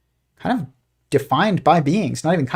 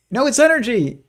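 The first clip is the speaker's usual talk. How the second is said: higher squeaky cartoon bickering; arguing cartoon physicist; 10 semitones higher than usual. Cartoon physicist arguing with another, higher insistent voice. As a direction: play a cartoon scientist insisting, pitched up. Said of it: "he's like".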